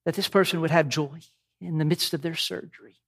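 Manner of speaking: lofty, solemn prayer voice; dignified preacher voice. Pretend. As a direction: pray like a pompous preacher. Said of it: "in my most dignified preacher voice".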